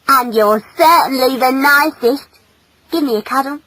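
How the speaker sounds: put-on keen, high young female; affectionate female. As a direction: tell him with teasing fondness. Female asks for a cuddle.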